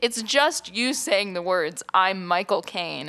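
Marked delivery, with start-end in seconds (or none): 1.9-3.1 slow, lightly mocked impression; Michael Caine. Mocking co-host's one-line act, weird imitation voice. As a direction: imitate a bad impersonator, drawn out. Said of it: "in a weird voice".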